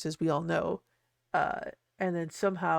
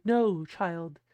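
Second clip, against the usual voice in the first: Sally voice; 4 semitones higher, slower than usual. Retold or imitated. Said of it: "Sally's here being like".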